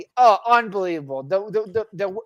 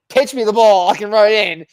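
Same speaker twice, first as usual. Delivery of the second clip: calling out; 4 semitones higher, 9 dB louder than usual. Retold or imitated. Quarterback calling for the ball.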